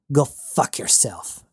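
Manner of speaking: slow, mild sneer; a touch of contempt, drawn out. Acted. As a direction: Gerta sneering at Jazz, understated. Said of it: "she sneered".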